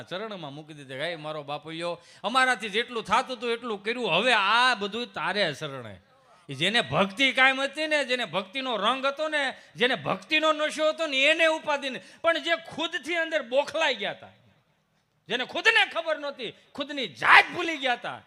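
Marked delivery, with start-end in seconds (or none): 0.9-6.0 louder, slowing devotional plea; devout prayer. Acted. Devotee praying to god. 6.5-18.2 high, loud sermon voice; fervent preaching. Acted. Preaching at full force.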